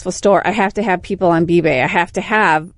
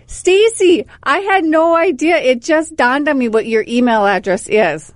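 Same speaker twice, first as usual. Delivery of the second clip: quoting coworker; 6 semitones higher, slower than usual. Retold or imitated. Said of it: "Curtis Joe from Bemidji".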